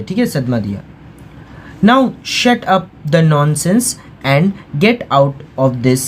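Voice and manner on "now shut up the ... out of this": very slow, word-by-word reading; slow textbook reading. A narrator's reading. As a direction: spell the sentence out slowly for learners. Teacher reads English text aloud.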